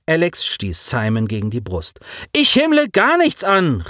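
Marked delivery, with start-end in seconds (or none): 2.3-3.8 calling out. A narrator's reading. Simon protests to Alex, higher cry. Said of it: "rief er".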